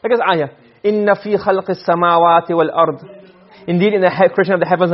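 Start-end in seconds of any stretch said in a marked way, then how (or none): 0.8-3.1 fast, fluent recitation of the verse; Quran recitation. Shown as a demonstration. Teacher reciting the ayah to students, fast and fluent. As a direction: recite it quickly and evenly.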